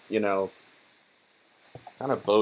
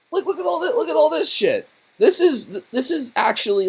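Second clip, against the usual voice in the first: mock outrage; 3 dB louder than usual. Real, not acted. Mock outrage at book page.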